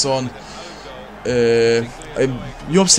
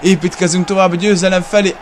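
high, loud shouting commentator; excited Hungarian sports commentary; 6 semitones higher, 4 dB louder than usual. Acted. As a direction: call the near-miss like a live commentator. Goal scored in match commentary. (izgatott sportkommentár)

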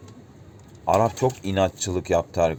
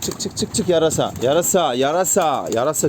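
high loud call to a bird; 6 semitones higher, 4 dB louder than usual. Real, not acted. Calling out to a bird.

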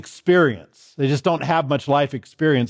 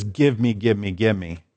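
put-on greedy childish demand; 7 semitones lower than usual. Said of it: "Childish faith says".

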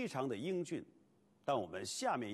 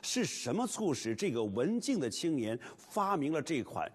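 lively documentary narration; 4 dB louder than usual. Acted.

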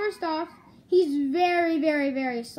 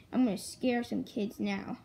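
whisper; 7 semitones lower, 5 dB quieter than usual. Pretend. Plotting to scare kids.

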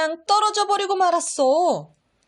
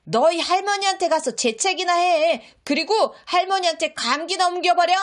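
shouting; 4 semitones higher, faster than usual. Acted. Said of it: "고함을 질렀어".

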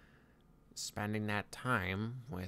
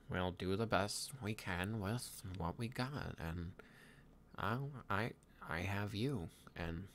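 put-on pensive young Viking leader, halting delivery; lightly voiced Hiccup. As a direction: muse aloud with long pauses, lightly in character. Plays Hiccup in improvised roleplay.

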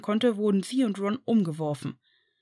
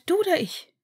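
nervous question; 11 semitones higher than usual. A narrator's reading. Nervous Hermine, high question.

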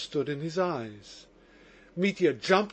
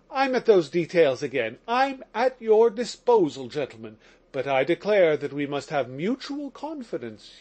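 mildly raised, fervent prisoner; impassioned Mitya. Acted. Prisoner confessing his love to the lawyers, lightly raised fervour. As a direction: pour out the heart, lightly pitched up.

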